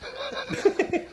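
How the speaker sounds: short high laugh. Real, not acted. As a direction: laugh at your own silly impression. Laughs at own impression.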